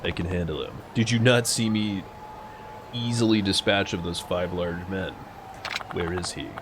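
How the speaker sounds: low, soft stoic hero voice. Acted. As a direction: play it cool and gruff. Voicing stoic game hero.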